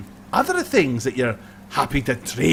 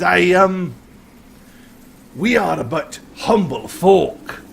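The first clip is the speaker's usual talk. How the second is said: mock humble robber; 4 semitones higher than usual. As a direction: feign humility, then demand it all. Highlander feigns humility, then demands belongings.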